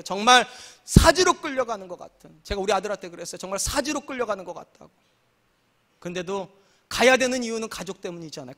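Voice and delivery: ordinary delivery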